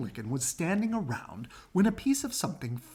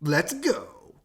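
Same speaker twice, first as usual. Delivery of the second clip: crowing; 2 semitones higher, 6 dB louder than usual. Acted. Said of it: "crowed Cocky Locky".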